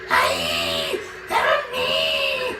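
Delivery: deep cry for help. Acted. Captured crewman cries for help, deep shout. Someone grabbed by ghost.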